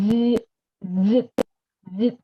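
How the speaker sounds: "dịch" with a buzzing onset pushed through the teeth; air through teeth. Shown as a demonstration. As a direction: push air between touching teeth on each "dịch". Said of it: "cái hơi của mình nó sẽ đẩy ra".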